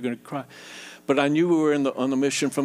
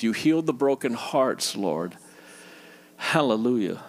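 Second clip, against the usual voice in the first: closing prayer. Acted. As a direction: pray over the hurting congregation.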